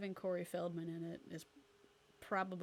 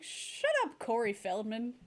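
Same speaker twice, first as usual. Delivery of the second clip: mock yell; 4 semitones higher, 4 dB louder than usual. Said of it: "I'm like".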